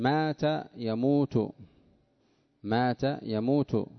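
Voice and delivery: slow and spelled out; slow teaching. Shown as a demonstration. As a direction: drill the verb slowly. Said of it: "أما الضم".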